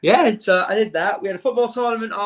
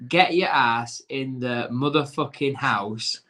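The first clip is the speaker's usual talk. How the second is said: slow reading of answer; 5 semitones lower, slower than usual. Shown as a demonstration. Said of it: "Yes, I put".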